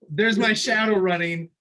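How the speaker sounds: loud, high, breaking into laughter; laughing through it. Retold or imitated. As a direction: retell the panicked thought while cracking up. Laughing at the retold nightmare chase.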